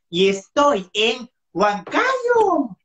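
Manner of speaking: slow, drawn-out announcer tone; imitated radio voice. Host mimicking the guest's radio voice slowly. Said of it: "con esa voz cuando has dicho".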